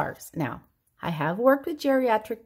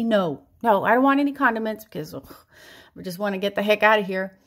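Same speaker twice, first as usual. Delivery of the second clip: hurried; 4 dB louder, faster than usual. Acted. Rushing to leave drive-thru.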